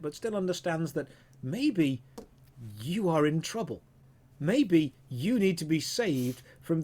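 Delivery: expressive storytelling with swooping emphasis; game master narration. Acted. Game master voicing the Minotaur's reasoning to a player, dramatic narration. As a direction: let each "maybe" hang before the reveal.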